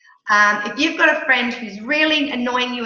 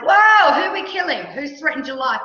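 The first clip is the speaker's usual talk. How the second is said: alarmed whoa; 5 semitones higher, 3 dB louder than usual. Retold or imitated. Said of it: "Calvin was like".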